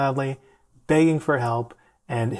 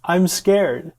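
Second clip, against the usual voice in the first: higher, louder retold cry of fear; mock scared yell; 6 semitones higher, 6 dB louder than usual. Distressed patient to his friend in the ER, mock scared yell. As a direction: imitate a panicking patient raising his voice. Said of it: "this poor guy is yelling".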